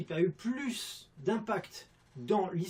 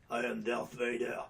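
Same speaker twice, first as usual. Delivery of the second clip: low lisping Darth Vader voice; deep villain line with a lisp; 4 semitones lower than usual. Retold or imitated. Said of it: "il zozotait un peu".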